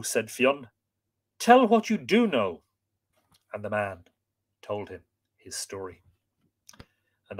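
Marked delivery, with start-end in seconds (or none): 1.4-2.6 stern command. Acted. Fionn presses servant.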